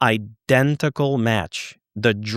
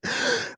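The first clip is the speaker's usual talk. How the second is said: imitated shocked gasp; quick gasp, acting out her shock; mock startled gasp; 7 dB quieter than usual. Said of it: "She went".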